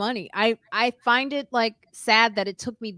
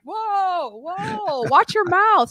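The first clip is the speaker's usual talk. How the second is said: much higher, mock-shocked scolding; scolding friend; 11 semitones higher, 3 dB louder, much slower than usual. Jessica scolding Lois across the table, high and shocked. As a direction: play the shocked friend telling her off. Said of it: "Jessica was like".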